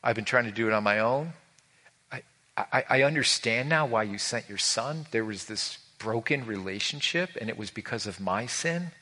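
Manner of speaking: quiet heartfelt confession; model prayer. Shown as a demonstration. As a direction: lead them in a humble prayer.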